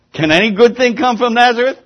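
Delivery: laughing quote. Retold or imitated. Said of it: "He doesn't hold back".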